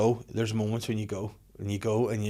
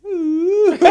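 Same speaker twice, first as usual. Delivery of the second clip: high teasing ooh; 13 dB louder than usual. Retold or imitated. Wife reacting to his shouting.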